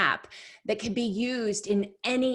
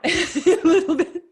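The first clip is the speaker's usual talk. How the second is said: laughing; 10 semitones higher, 8 dB louder than usual. Real, not acted. Admitting she is still guilty.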